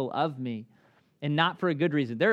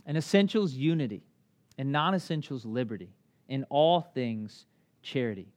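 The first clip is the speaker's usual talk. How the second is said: quote reading; 2 semitones lower than usual. Acted. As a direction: read the quote with weight. Reads a quote.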